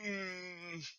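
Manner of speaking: put-on high, loud old-timer voice; old, achy character. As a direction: declare it like a hungry old codger. Old character gives up on task.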